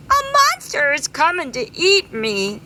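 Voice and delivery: high, frightened bee voice; mock terror of a monster; scared bee. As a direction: panic a little.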